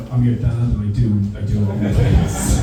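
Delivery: stern dad. Retold or imitated. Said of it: "To which he replied".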